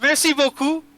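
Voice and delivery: high put-on French voice; French accent. Drow thanks the visitors at his door, French accent. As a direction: lay on a lilting French accent. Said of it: "what if he's French instead".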